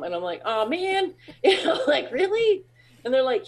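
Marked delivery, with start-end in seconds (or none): 0.4-2.6 mock disappointment. Retold disappointed reply to friends.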